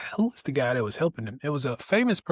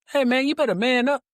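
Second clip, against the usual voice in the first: higher, louder and faster, a jokey tough-guy scold; mock tough self-talk; 10 semitones higher, 5 dB louder, faster than usual. To himself for getting teary, a hammed-up tough-guy scold. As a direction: bark at yourself to man up, half joking.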